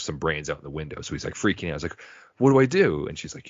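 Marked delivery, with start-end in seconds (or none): 2.4-3.1 mock panic. Fry panicking, retold.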